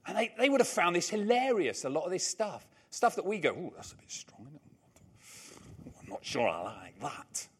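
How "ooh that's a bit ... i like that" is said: put-on hushed, low northern English accent; tut-tut softly in a northern English accent, mildly disapproving. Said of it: "did that northern accent".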